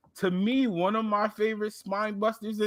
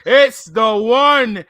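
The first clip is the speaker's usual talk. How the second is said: wrestling promo; 3 semitones higher, 8 dB louder, slower than usual. Acted. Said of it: "I gotta say it in my wrestling voice".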